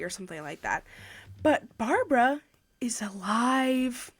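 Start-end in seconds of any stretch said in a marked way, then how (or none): 1.4-4.1 slow, breathy whisper of the twist; secretive whisper. Acted. Reviewer revealing the twist to viewers, whispered slowly.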